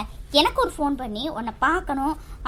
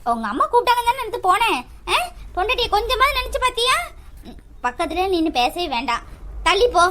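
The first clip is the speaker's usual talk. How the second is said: angry scolding; 5 semitones higher than usual. Acted. Wife scolding husband, pushing away.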